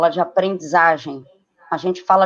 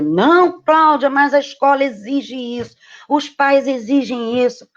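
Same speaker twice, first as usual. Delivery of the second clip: objecting parent; 4 semitones higher than usual. Retold or imitated. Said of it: "um monte de gente que vai dizer".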